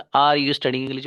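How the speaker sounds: slow, word-by-word "Are you studying English?" while writing on the board; slow dictation. Shown as a demonstration. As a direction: dictate each word slowly for the class. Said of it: "बन गया". (बोर्ड पर लिखते हुए धीरे-धीरे बोलना)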